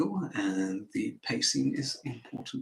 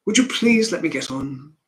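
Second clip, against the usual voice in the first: dismissive, not angry; 3 semitones higher, 8 dB louder than usual. Acted. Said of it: "he's not necessarily angry".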